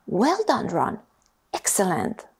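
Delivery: a hint of self-important praise; pompous.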